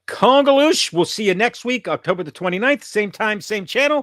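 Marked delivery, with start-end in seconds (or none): 0.1-0.9 catchphrase shout. Acted. Signature sign-off exclamation.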